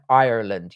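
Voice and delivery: Ireland said in full with the r; forced proper pronunciation. Shown as a demonstration. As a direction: make yourself sound every syllable of Ireland. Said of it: "force yourself to pronounce it properly".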